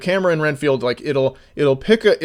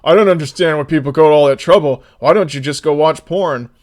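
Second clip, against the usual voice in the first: louder, quick dismissive mock voice; mocking idiot quote; 7 dB louder than usual. Mocking a sex-mod critic, fast and louder. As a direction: parrot the idiot's smug question. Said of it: "this one fucking idiot was like".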